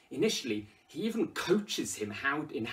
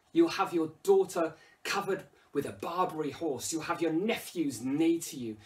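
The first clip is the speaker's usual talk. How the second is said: louder, higher, goading tirade; crude provocation; 5 semitones higher, 4 dB louder than usual. Acted. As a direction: needle him with coarse insults. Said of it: "look at how the language changes".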